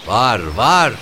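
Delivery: high, piercing woman's answer; shrill, angry woman. A narrator's reading. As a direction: answer crossly in a shrill, sweet screech. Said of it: "öfkeli bir kadın sesi geldi".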